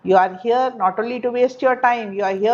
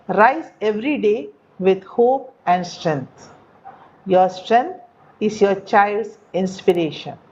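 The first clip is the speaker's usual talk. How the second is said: slow model reading; slower than usual. Shown as a demonstration. Teacher models the lines slowly for the class. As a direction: stretch each phrase slowly for the learners. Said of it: "Listen to the pronunciation, listen to the rhythm".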